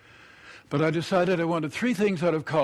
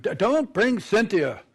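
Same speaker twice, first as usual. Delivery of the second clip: stuttered start, slow and insistent; nervous stutter; 4 semitones higher, 4 dB louder than usual. Acted. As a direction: stumble on the first sound, pleading. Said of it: "if I'm nervous, I either stutter".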